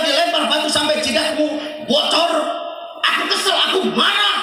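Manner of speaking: high, loud indignant ranting; high shouted outrage; angry angel Jibril. Acted. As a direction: rage on the Prophet's behalf. Angel Jibril voiced, furious.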